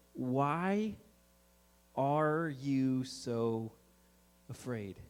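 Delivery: low, very slow, quiet question; casual, unbothered Jesus. Acted. Jesus to the frightened disciples, casual and unhurried. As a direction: draw it out calmly, dropping soft on the last word. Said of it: "Jesus wakes up casually and he kinda looks at them".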